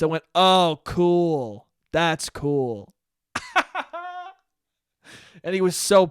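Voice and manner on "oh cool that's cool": flat, unimpressed "Oh, cool."; mirroring his bored tone right back at him; dismissive oh cool. Retold or imitated. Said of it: "In that exact tone of voice".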